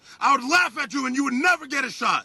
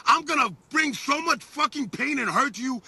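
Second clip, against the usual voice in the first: angry shout. Real, not acted. Fighter shouting a threat at his opponent across the table, angry shout. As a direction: yell the threat at him. Trash talk at fight face-off.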